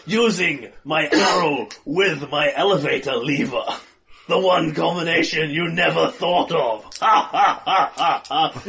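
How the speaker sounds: villain voice. Acted.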